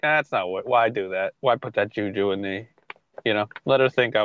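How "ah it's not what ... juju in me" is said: inner voice. Retold or imitated. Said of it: "something in me is like".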